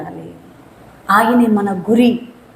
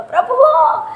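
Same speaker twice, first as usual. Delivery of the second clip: acted plea that fades; pleading. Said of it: "కేకలు వేశాడట".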